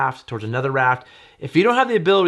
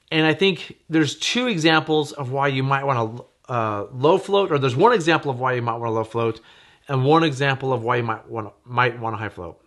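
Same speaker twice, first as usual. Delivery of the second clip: halting, with false starts and self-corrections; stumbling over words. Real, not acted. Vlogger losing the thread while explaining two examples, stumbling. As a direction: trip over the phrasing and restart. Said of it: "I'm stumbling over my words now".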